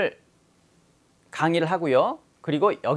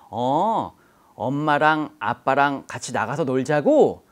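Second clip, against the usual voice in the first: gentle mother; 4 semitones lower, slower than usual. Retold or imitated. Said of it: "이렇게 얘기를 해주는 거예요, 엄마가".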